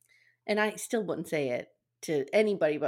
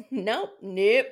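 ordinary talk

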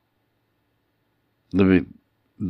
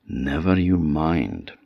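too calm creepy doll; slower than usual. Acted. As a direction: soothe her in a creepy hush. Doll soothes Vasilisa.

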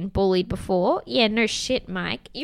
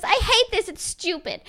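high-pitched imitation of a little boy; upset little kid quote; 10 semitones higher than usual. Retelling little Alex's complaint, high mock upset. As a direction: lift it high, falling away on the complaint.

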